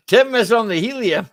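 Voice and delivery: laughing through the words. Real, not acted. Teasing Tim about his squeaky voice, laughing. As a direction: giggles while teasing Tim.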